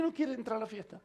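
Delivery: lightly acted father questioning the news; mild disbelief, kept quiet; puzzled echo.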